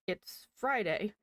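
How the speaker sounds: slow, lightly voiced puzzled dad; a hint of a baffled father stating the obvious; confused dad voice. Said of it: "Most confused dad voice ever".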